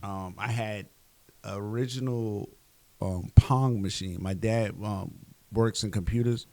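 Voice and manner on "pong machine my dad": normal talking voice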